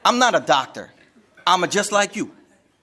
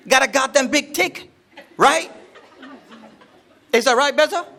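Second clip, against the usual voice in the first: laughing tease; 7 semitones higher than usual. Real, not acted. Laughing, pitch well up.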